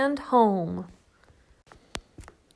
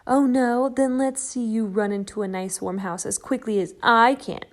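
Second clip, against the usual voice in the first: taunting; 5 dB louder than usual. Acted. Cat taunts Shelley.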